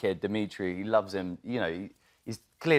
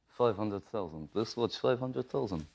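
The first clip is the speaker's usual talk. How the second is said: put-on slow, softer Russian accent; 6 dB quieter, slower than usual. The speaker naming the watch price, slow Russian accent. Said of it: "a Russian accent".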